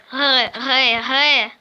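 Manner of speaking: Г, Г, Г with a throaty French-style r. Shown as a demonstration. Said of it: "Я умею картавить". (Г, Г, Г картаво, с грассирующим «р»)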